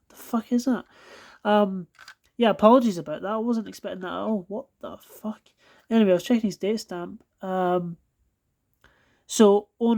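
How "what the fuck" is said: much softer muttered disbelief under the breath; muttered disgust. Real, not acted. Reviewer mutters to himself over the gunk, quiet disbelief. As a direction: mutter it to yourself.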